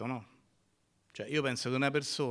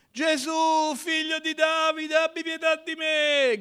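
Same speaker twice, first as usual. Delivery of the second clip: much higher, louder desperate shout; blind man crying out; 8 dB louder than usual. Acted. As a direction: call out over a crowd. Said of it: "Gridava, gridava, gridava".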